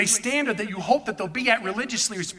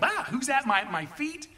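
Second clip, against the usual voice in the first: mild mock fright, tailing off; a touch of alarm, dropping quieter at the end; frightened; 5 semitones higher, 3 dB quieter than usual. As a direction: act startled out of sleep.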